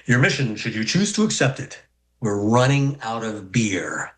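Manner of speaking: mock spy briefing that slows to a hush; Mission Impossible voice. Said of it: "in a Mission Impossible voice".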